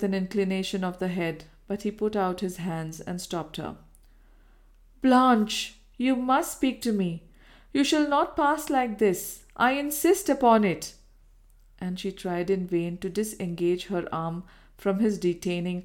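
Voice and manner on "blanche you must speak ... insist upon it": raised, commanding male voice; a lover refusing to let her pass; insistent man. Acted. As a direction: stop her with a firm demand. He stops her, demands she speak.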